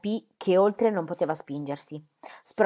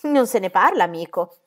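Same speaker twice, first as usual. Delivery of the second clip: loud, dead-serious refusal; firm shout; 7 dB louder than usual. Acted. Stenia refusing the guard's demand, a loud serious shout. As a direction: shut him down hard, no smile. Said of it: "urlò la Stenia serissima".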